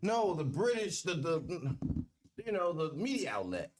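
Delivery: high-pitched protest. Pretend. Explaining BBC means the broadcaster, high-pitched protest. Mock-indignant clarification of BBC.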